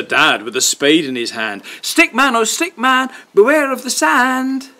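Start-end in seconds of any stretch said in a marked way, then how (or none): 1.8-4.7 warning refrain. A narrator's reading. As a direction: draw out the warning. Chanted refrain warning Stickman.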